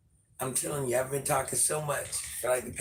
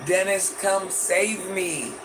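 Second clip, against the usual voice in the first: mock plea; 3 semitones higher, 4 dB louder, slower than usual. Pleading to Dennis again.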